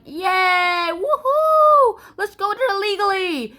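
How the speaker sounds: high, whooping mock celebration; gleeful cheering. Separatists setting off for Holland, gleeful cheer. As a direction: whoop it up as a crowd.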